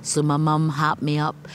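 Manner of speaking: measured recitation, each line set apart by pauses; poem reading. Acted. Poet reading her bilingual poem to the interviewer, steady recitation. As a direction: read it like a poet giving her own verse.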